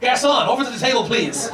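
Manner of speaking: high-pitched, hammed-up call to a waiter; movie-style summons. Nervous diner copying movies to summon waiter, hammed-up calling out. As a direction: call across the room like a bad film customer. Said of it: "I went like this".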